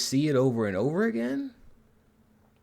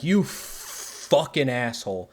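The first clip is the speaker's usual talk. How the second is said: mock insult; 2 semitones higher, slower than usual. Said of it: "Deck is just like".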